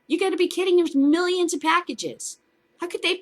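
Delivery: incredulous. Real, not acted. Incredulous rant.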